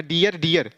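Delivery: "dear" as dee-yar, r pronounced both times; mistaken sounded r. Shown as a demonstration. Teacher shows what would be wrong, "dear" with sounded r. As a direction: close each "dear" on a clear r. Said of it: "यानी ये तो गलत हो जाएगा".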